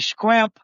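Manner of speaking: "scrimp" said for shrimp with an skr start; Southern pronunciation. Retold or imitated. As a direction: say "scrimp", the local take on shrimp. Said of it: "hearing the people ... say".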